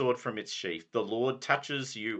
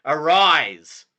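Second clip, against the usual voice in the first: Sir Brastius; 7 dB louder than usual. Acted. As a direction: command them to kneel. Knighting ceremony.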